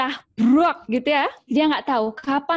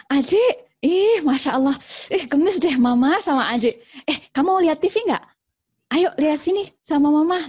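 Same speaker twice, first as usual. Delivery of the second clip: higher, doting mock-sweet coo; sweet mother; 3 semitones higher than usual. Moody mother being sweet to her child, a higher doting coo. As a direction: gush over the child like a doting mom. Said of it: "sweet gitu sama anaknya".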